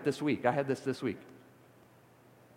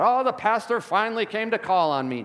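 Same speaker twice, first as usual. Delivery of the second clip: put-on excited old lady; 8 semitones higher, 7 dB louder than usual. Ninety-one-year-old church lady voiced.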